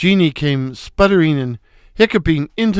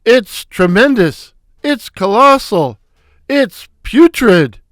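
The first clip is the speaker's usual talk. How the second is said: loud, high stooge exclamations, climbing to putrid; excited exclaiming; 5 semitones higher, 5 dB louder than usual. Acted. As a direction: shout each word bigger than the last. Shemp exclaims over the room.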